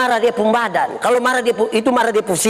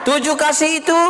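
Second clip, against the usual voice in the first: raised, chant-like sermon listing; preaching recitation; 6 semitones higher than usual. Real, not acted. Pastor listing what love is, preaching recitation. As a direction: count out each point in a high preacher's voice.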